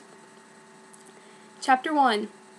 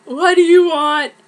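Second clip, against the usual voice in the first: louder, a touch higher, annoyed snap; snappy what do you want; 3 semitones higher, 7 dB louder than usual. Acted. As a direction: toss it back with mock irritation. Girl snaps at boy in fic.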